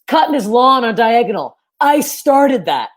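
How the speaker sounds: dad voice. Retold or imitated.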